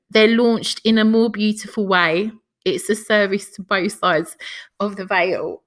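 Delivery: gentle, measured reading of a passage; tender spoken reading; reading aloud. Acted.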